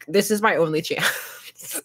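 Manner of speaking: slow, half-laughing mock despair; mock desperate. Explaining cheap game buys, slow mock-desperate whine. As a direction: plead it like a last chance, slowly. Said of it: "'cause I was like".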